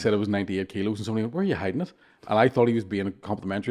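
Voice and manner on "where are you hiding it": deadpan, softer mock question; sarcastic monotone. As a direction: retell it as dry, understated sarcasm. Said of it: "he's just sarcastic with a monotone voice".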